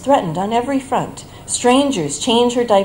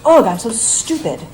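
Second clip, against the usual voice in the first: imitating mild self-directed frustration, louder; a touch of an annoyed groan at herself; mother scolding herself in a mild mock huff; mad at herself; 4 semitones higher, 5 dB louder than usual. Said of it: "she gets mad at herself".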